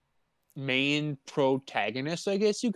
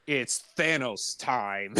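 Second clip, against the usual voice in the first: mock catchphrase; slower than usual.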